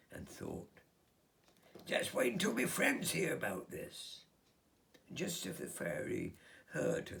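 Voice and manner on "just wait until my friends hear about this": put-on high, loud thrilled girl; excited squeak. Olivia thinks of telling her friends, high and excited. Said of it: "squeaked with excitement".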